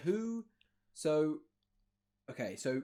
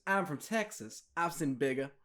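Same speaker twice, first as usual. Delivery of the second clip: mock Texas twang; lightly put-on Southern accent. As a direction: imitate a Southern girl, lightly. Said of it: "Kelly in a southern accent goes".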